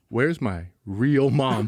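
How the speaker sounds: slow, low eerie question; eerie sleepwalker. Retold or imitated. Sleepwalking son to mom after a hug, eerie. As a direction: draw it out like a sleepwalker.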